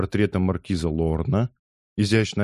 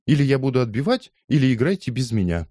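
ultimatum; 6 semitones higher than usual. Acted. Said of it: "отвечала Лиза".

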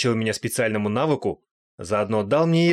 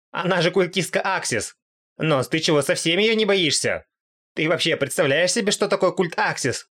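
higher, exasperated commander; agitated monster commander; 6 semitones higher than usual. Acted. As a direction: urge Nos to ditch her. Goat-head lectures disguised Kazuma. (командир монстров отчитывает Носа, раздражённо)

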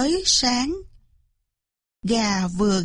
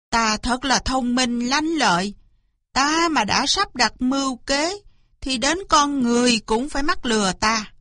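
self-satisfied fox boasting; mildly conceited, pleased with yourself; smug. Acted. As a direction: gloat over your own cleverness. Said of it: "Nó thường dương dương tự đắc".

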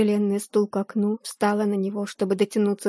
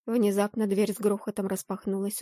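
usual speaking voice

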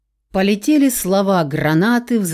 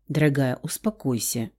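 polite but firm; 5 semitones lower, 5 dB quieter than usual. A narrator's reading. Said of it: "вежливо, но уже с некоторым нажимом".

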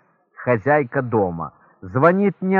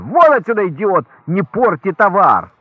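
loud, higher angry yell; angry shout; 4 semitones higher, 6 dB louder than usual. Acted. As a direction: throw him out loudly. Shop owner throws stutterer out.

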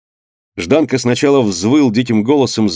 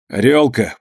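hoarse rasp. Acted. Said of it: "прохрипел Жданка".

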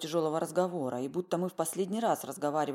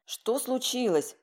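bewildered; 8 semitones higher, 4 dB louder, much slower than usual. A narrator's reading. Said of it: "растерялась Полина Ильинична".

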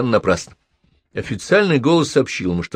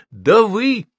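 high, loud furious yell; shouting; 10 semitones higher, 5 dB louder, much slower than usual. A narrator's reading. Professor loses her temper with the policeman, high and loud. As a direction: she loses control and screams at him. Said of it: "крикнула Елена Петровна".

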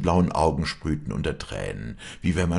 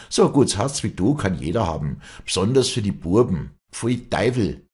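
higher, louder scornful outburst; bursting hatred; 5 semitones higher, 6 dB louder than usual. A narrator's reading. Village woman insulting her rival, hateful. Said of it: "rief die Walli mit ausbrechendem Hass".

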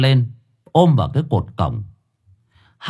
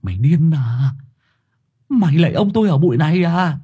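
indignant rebuke; 7 semitones higher than usual. A narrator's reading. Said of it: "trợn mắt nhìn thằng Hải béo".

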